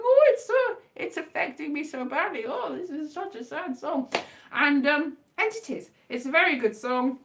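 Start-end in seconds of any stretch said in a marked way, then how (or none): 0.0-4.1 a light mock-tearful gush; imitating weepy viewers. Quoting YouTube reactors, mock-tearful gush. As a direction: play a weepy fan, hammed-up. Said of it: "They're going".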